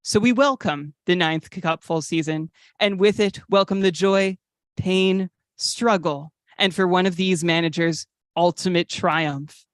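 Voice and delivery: measured, grandiose prologue reading; portentous opening monologue; solemn scripted intro. Acted. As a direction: read it like an epic season prologue, pausing for weight. Reads a written show intro.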